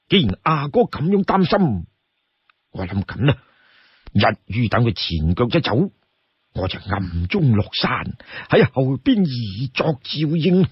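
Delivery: lightly voiced advisor offering a discreet plan; Lu Junyi. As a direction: lay out the plan reassuringly. Voices Lu Junyi proposing secret plan.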